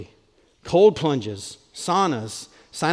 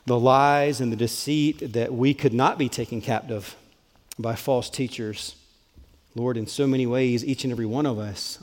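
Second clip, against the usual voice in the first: closing prayer; 3 semitones lower than usual. Real, not acted.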